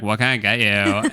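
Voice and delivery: lightly imitated Valley Girl lilt; Valley Girl barista. Barista greets a coffee customer, lightly mocked Valley Girl. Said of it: "she's talking like this".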